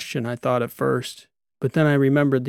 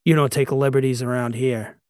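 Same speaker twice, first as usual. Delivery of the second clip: scolding. Acted. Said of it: "Abali scolded the creature".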